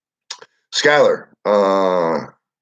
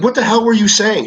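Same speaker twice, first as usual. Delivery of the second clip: incredulous; 14 semitones higher than usual. Retold or imitated. Incredulous retort in retold argument.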